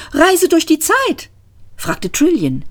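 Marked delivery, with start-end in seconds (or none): 0.1-1.3 much higher, puzzled rise; a bemused high echo; Trillian's question. Acted. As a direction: echo it in disbelief.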